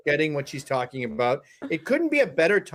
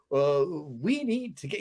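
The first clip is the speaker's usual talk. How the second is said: put-on Roger Stone accent; 4 semitones lower, 4 dB quieter than usual. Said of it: "he has a very distinct accent".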